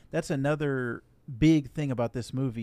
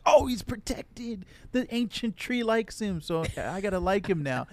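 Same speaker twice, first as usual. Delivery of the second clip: mock Neytiri voice; 7 semitones higher than usual. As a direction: act out her logic in a high voice. Mocking Neytiri's reasoning.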